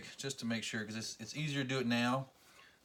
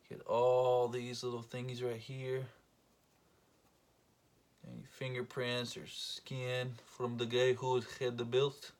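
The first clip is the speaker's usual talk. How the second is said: light, slow mock Armenian accent; a hint of an Armenian accent, slowed down. Cleaning the plate, lightly joking in an Armenian accent. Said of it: "what accent that is, that is Armenian".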